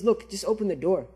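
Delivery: softly voiced coaxing, a mild mock whisper; retold whisper. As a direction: lightly imitate a tempter murmuring in someone's ear. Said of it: "whispers to him".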